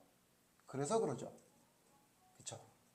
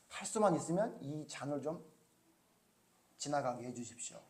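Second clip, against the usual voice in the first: anguished prayer; 3 semitones lower, 9 dB quieter than usual. Retold or imitated. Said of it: "그렇게 막 안타깝게 기도하고".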